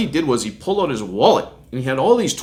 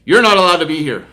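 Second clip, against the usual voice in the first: higher, louder telling-off of a trespasser; acted angry scolding; 4 semitones higher, 7 dB louder, faster than usual. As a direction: imitate an irate man laying down the rules. Acted angry man confronting him.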